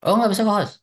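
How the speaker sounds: sudden high startled question; surprised. Real, not acted. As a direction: caught off guard, ask in disbelief. Kaget tidak bisa jadi co-host. (kaget dan heran)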